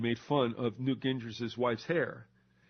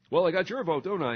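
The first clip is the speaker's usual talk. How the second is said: louder, lightly voiced self-satisfied candidate; smug politician; 4 semitones higher, 4 dB louder than usual. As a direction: gloat over the vote. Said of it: "politician voiced to voter".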